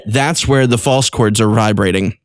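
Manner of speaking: ordinary delivery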